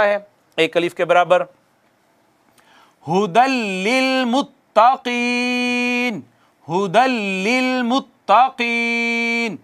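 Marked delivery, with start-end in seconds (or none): 3.1-9.6 slow, drawn-out chanted recitation; Quran recitation. Shown as a demonstration. Teacher reciting the verse for students, slow chanted recitation. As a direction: recite each word slowly, stretching the vowels. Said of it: "इसमें ये चीज़ें मैं छोड़ रहा हूँ".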